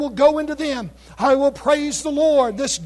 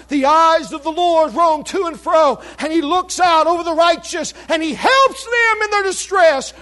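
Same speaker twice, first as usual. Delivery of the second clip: rising preaching; 3 semitones higher than usual. Real, not acted. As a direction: build it up to a cry. Preaching climax.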